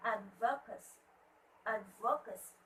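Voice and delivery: "Advocacy" said AD-vo-ca-cy, weight on AD; first-syllable stress. Shown as a demonstration. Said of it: "It's on the first syllable".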